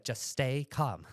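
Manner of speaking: steady him like an unflappable grandmother; calm British grandma. Retold or imitated. British grandma to grandson with guns around, calm. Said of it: "British, like, keep calm, carry on".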